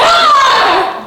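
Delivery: pirate growl. Acted. Pirate cheer after reveal.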